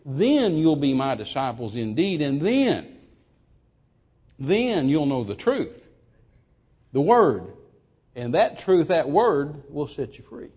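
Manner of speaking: slow weighty scripture quote; quoting Jesus slowly. Retold or imitated. Preacher repeating Jesus' words to church, slow and weighty. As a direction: lay each phrase down with pauses. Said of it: "He said".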